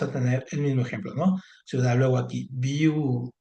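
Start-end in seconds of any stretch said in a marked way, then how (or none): 2.5-3.3 "viudo" split as viu, pause, do; divided into syllables. Shown as a demonstration. Teacher showing how a word separates, "viudo" in two beats. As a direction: stretch the first syllable of "viudo", then set "do" apart. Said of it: "¿Cómo se separa?".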